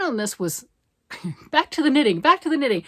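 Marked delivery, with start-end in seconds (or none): 1.5-2.8 laughing. Real, not acted. Laughing, steering herself back on topic.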